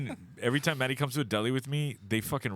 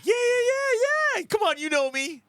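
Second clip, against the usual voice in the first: high, loud cocky yell; cocky shout; 5 dB louder than usual. Retold or imitated. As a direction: shout it out overconfident. Overconfident reply to waiter.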